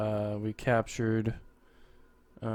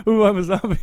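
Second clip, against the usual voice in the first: high hammy zombie moan; a silly fake zombie groan; 9 semitones higher, 9 dB louder, faster than usual. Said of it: "There's no way that would fool anyone".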